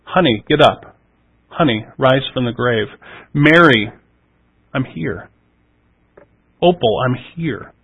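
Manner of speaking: gentle, softening toward the end; tender. Retold or imitated. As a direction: speak like a loving voice calling someone back. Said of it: "tender compassion in the way that he says".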